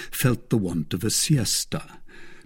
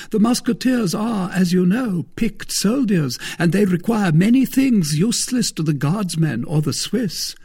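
a higher, louder voice for the smug musketeer; Porthos, self-satisfied; 10 semitones higher, 5 dB louder than usual. Acted. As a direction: play Porthos, pleased with his own scheme. Porthos quoted in the story.

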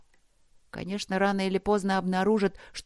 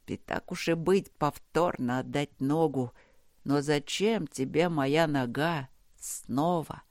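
lower, weary voice of a trapped man; delirious half-prayer; 3 semitones lower than usual. Acted. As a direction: talk to the dark, half mad and exhausted. Delirious bargaining with darkness. (бредовая полумолитва, тихо и устало)

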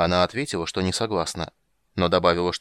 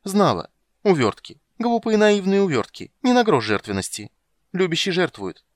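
much higher, louder aggrieved siren; offended siren; 8 semitones higher, 5 dB louder than usual. Acted. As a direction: lecture him like a wronged sea maiden. Siren voiced in high register.

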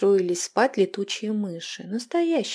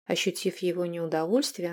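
ordinary delivery

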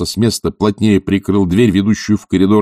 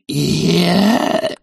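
strangled sound; 9 semitones higher than usual. A narrator's reading. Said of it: "он издал звук не то".

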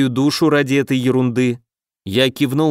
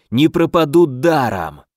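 gloating villain. Acted.

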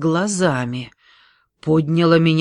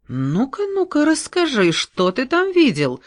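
keen, rising ну-ка, ну-ка, leaning in; hungry for the story, coax it out; lightly voiced eager forester; eager curiosity; 10 semitones higher than usual. A narrator's reading. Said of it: "заинтересованно повернулся".

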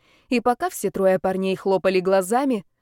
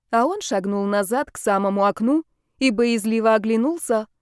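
usual speaking voice

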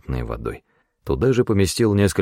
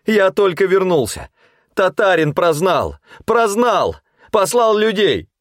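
frightened pleading; 13 semitones higher than usual. A narrator's reading.

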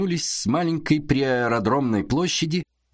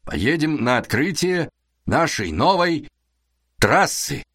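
slow announcer voice, like a compere; booming stage introduction; 3 semitones higher than usual. Acted. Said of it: "как конферансье".

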